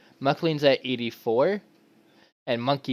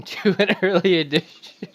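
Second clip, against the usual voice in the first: breaking character giggling; 6 semitones higher, 4 dB louder than usual. Real, not acted. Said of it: "I can't keep a straight face".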